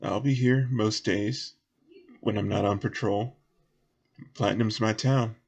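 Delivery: earnest warning, light Southern voice; lightly voiced local. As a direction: warn the travellers in a lightly folksy voice. Game master voices Southern character.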